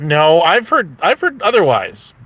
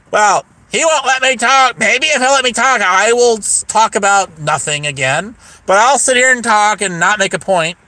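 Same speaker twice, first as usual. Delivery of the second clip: slightly raised mock complaint; lightly hammed-up grumbling quote; mocking imitation; 3 semitones higher than usual. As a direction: mimic someone griping on and on. Mimics her complaint about him.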